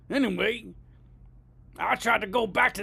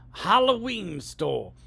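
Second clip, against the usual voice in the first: slow, carefully spelled out for the phone; voice command; slower than usual. Shown as a demonstration. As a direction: speak so the robot can't miss it. Talking to phone map app.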